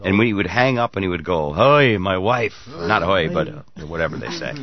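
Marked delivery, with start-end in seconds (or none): 1.5-2.5 mock Russian accent. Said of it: "he would explain in his thick accent".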